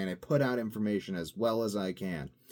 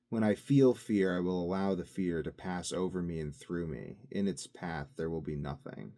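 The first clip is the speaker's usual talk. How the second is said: solemn recitation; 2 semitones lower than usual. Acted. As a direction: intone it like a sacred mantra. Recites Dune litany.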